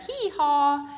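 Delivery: loud, high braying; donkey bray. Acted. Donkey noise.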